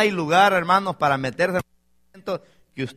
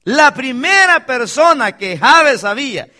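raised, emphatic pulpit voice; forceful preaching; 5 semitones higher, 7 dB louder than usual. Real, not acted. Preacher telling the church whom Jabes needed first, forceful preaching. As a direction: drive the point home loudly to the congregation.

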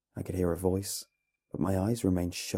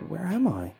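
slurred tired voice; 10 semitones higher, 4 dB louder than usual. A narrator's reading. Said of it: "in a slurred, tired voice".

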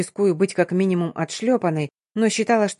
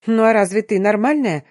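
flustered gabble; 3 semitones higher, 4 dB louder than usual. Acted. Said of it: "сбивчиво затараторила она".

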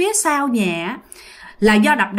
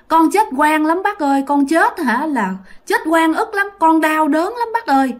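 put-on a murdered boy's ghost, voice pitched higher, begging; ghost boy pleading; 5 semitones higher than usual. Dead boy's ghost begging the officer in his dream, higher plaintive voice. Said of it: "thằng nhỏ này nó mới trả lời rằng á là".

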